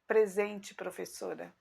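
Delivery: small, timid answer as a schoolgirl; tiny shy voice. Retold or imitated. Shy schoolgirl answering the teacher at roll call. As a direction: answer roll call shyly, barely audible.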